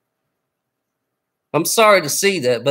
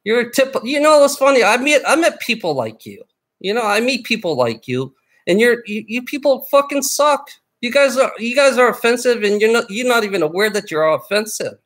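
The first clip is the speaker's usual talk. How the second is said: angry rant; 6 semitones higher than usual. Real, not acted. Berating chat viewers.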